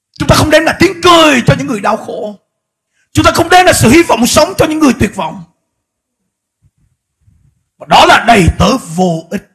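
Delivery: high, loud impassioned exhortation; preacher rousing the church, at full force; fiery preaching. Acted. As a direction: thunder the warning at the congregation.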